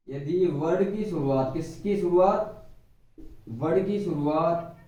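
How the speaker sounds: slow, deliberate teacher phrasing; slow classroom stress; slow emphasis. Shown as a demonstration. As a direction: spell the rule out slowly. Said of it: "teacher stressing the rule".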